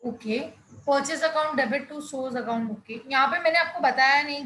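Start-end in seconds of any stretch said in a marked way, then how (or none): 0.9-2.7 each word drawn out slowly; slow, deliberate repeat. Shown as a demonstration. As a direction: spell it out word by word. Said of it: "repeats the student's answer".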